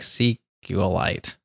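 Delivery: sequelite attempted with an ending like meteorite; slow, halting sequelite, ending "-ite". Shown as a demonstration. Attempting the creator's own pronunciation, sequelite to rhyme with meteorite. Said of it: "it's actually, like, meteorite".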